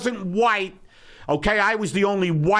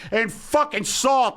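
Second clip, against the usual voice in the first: sarcastic retort; 4 semitones higher than usual. Retold or imitated. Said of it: "I said".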